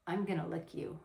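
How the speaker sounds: soft, hushed seductive line; sexy, low-key. Shown as a demonstration. Showing men how to say it to her, softly seductive. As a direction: drop the volume and tease it. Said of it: "say it just like this".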